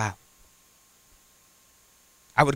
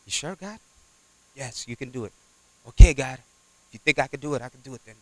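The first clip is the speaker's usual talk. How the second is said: much softer, private talk with God; hushed prayer; 2 semitones lower, 5 dB quieter, faster than usual. Retold or imitated. Preacher retelling his prayer, hushed and soft. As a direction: murmur it as a quiet prayer.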